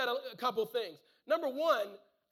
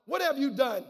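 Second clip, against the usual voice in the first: a loud demanding cry; a touch of panicked sailor; 6 dB louder than usual. Acted. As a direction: fling the question at him. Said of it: "they ask".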